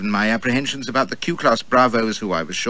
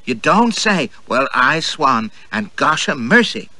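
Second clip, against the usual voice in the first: mock amazement; 4 semitones higher, 3 dB louder, slower than usual. Girls' cries of wonder.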